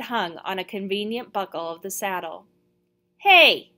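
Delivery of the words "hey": loud, high, indignant cry; sudden furious shout; outraged yell. A narrator's reading. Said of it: "I yelled in outrage".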